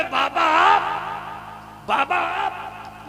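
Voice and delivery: slow, high, anguished calling out; anguished cry. Acted. Poor wife at the door greets the saint, anguished. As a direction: stretch each word as if the heart aches. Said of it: "तड़प कर कहते".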